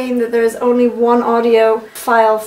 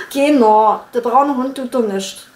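Saxon accent. Shown as a demonstration. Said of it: "Sächsisch".

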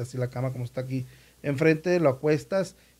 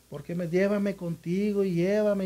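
put-on weeping child; 7 semitones higher, slower than usual. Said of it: "del niño hermanito llorándole".

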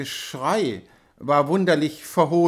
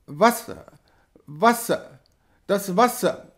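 feverish whimper, pitched higher; 4 semitones higher than usual. A narrator's reading. Fevered wife begging for water, whimpering. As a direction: plead weakly for water in delirium. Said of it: "wimmerte die Kranke".

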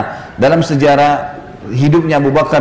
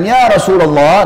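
loud call; 5 semitones higher, 3 dB louder, slower than usual. Retold or imitated. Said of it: "dengan suara keras".

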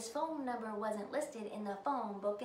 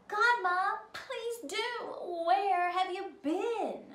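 excited Ellie; 9 semitones higher, 6 dB louder than usual. A narrator's reading. Ellie greets godmother.

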